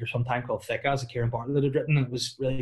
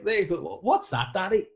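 put-on child voice; 7 semitones higher than usual. Child asking father.

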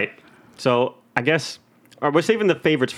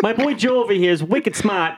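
put-on high frog puppet with Boston accent; Kermit; 5 semitones higher than usual. Host obeys co-host's request, Boston Kermit voice. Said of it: "and Kermit".

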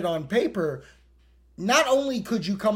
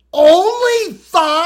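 high, slow disbelieving only five; surprised; 12 semitones higher, 13 dB louder, slower than usual. Real, not acted. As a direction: gasp it out in disbelief. Surprised reaction reading article.

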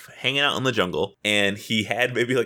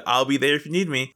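imitating an over-helpful promise, a bit higher; mock-sincere and slightly quick; fake nice; 4 semitones higher, faster than usual. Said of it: "trying to be so nice and so fake".

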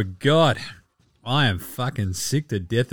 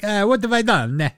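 higher, puzzled voice breaking into a laugh; lightly voiced confused player laughing; mock bewildered player; 8 semitones higher than usual. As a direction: play him baffled at being dumped. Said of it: "He's gonna be like".

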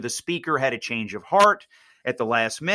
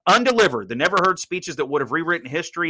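higher, louder radio title announce; hyped announcer; 5 semitones higher, 3 dB louder than usual. Real, not acted. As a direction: sell the title like a promo. Host announces title before break.

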